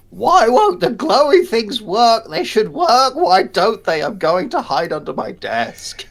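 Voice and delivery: loud, high, frantic wail; panicked shouting. Retold or imitated. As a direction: yell it in code despair. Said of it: "it's written".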